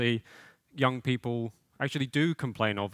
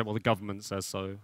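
mild exasperated brush-off; 3 semitones lower, 4 dB quieter than usual. Retold or imitated. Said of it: "And you might kind of exasperatedly say".

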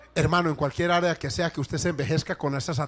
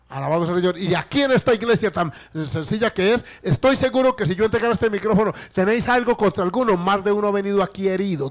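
raised, higher pulpit voice; forceful preaching; 4 semitones higher, 3 dB louder than usual. Acted. Preacher challenging his own small church, forceful preaching. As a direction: press the point on the congregation.

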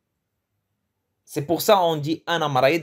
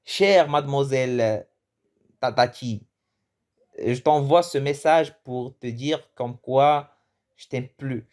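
mock love letter. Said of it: "comme on dit".

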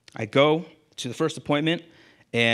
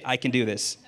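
excited disbelief. Retold or imitated. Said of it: "as excited as can be".

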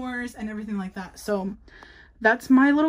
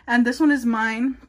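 out of breath. Real, not acted. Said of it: "Sorry, I'm out of breath".

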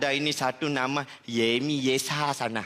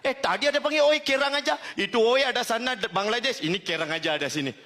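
high mock bangladeshi voice; 6 semitones higher, faster than usual. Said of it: "Dia kata".

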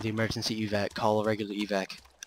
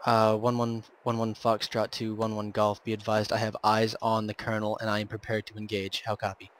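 radio callout. Acted. Radio call to teammate.

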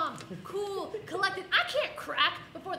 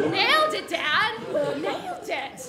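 triumphant cheer; 5 semitones higher, 8 dB louder, slower than usual. Retold or imitated. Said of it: "cheering her dad".

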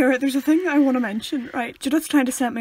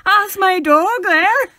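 loud, slow, high put-on rural accent; put-on country accent; 6 semitones higher, 7 dB louder, much slower than usual. Claiming the puppy as their own, in an exaggerated regional accent. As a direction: draw it out loudly in a comic regional accent. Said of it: "What accent is that there?".

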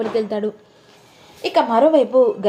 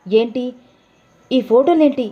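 shouting at wife; 4 dB louder than usual. Retold or imitated. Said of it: "గట్టిగా అరుస్తాడు".

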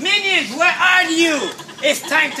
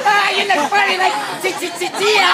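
laughing; 4 semitones higher, faster than usual. Pretend. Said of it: "I want you to go super fast".

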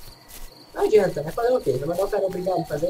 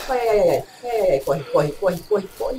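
panicked; slower than usual. Real, not acted. Fleeing a monster in game.

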